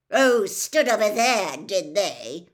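loud, scornful echo; sarcastic disbelief. A narrator's reading. Mister Crouch turns on Hermione, sarcastic disbelief. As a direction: throw the words back loudly in disbelief.

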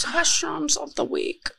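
sing-song segment title, slow and high; announcer voice. Pretend. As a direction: announce it like a show jingle.

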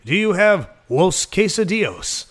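dad's hammed-up bad Spanish accent; fake Spanish accent. Dad ordering from the waiter, mock Spanish accent. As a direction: put a phoney Spanish accent on plain English. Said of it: "his idea of speaking Spanish is just using an accent".

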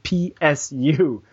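slow, letter by letter; spelling it out. Shown as a demonstration. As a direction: spell it slowly for someone forgetful. Spelling out site for forgetful colleague.

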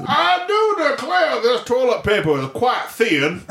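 giggly, exaggerated Georgian put-on; Georgian accent. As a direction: complain in a hammed-up Georgian accent. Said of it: "every sentence we start with has to start".

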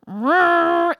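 voiced motor revving noise; imitated engine roar. Guy starts the boat, imitated roaring engine.

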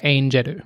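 "Aingeru" as Japanese syllables, ending in -ru; Japanese-style angel. Shown as a demonstration. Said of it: "that then sounds like".

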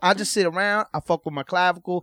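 loud, swaggering street-guy parody; mock tough-guy braggart. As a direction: boast it like a cartoon tough guy. Parodies her explaining her habit.

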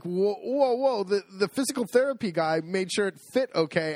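high-pitched objection, retold; acted-out "hold on a minute"; alarmed protest. Acts out protesting the readjustment.

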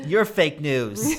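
slow, drawn-out teasing jab; mock accusing. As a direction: tease it slowly like a taunt. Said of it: "I just yell it at people".

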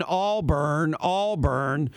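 "Auburn" drawn out as "All-Burn", second half fully sounded; slow, evenly weighted AWL-BURN for "Auburn"; mispronounced Auburn. Retold or imitated. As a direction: mimic an outsider's over-careful "Auburn, Auburn" as "All-Burn". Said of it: "He just kept saying".

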